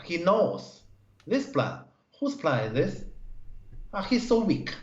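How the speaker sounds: lightly acted put-down of an opponent; mock disparagement. Teacher imagining talk about a student's plan, mock scornful. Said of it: "let's say we can talk like this".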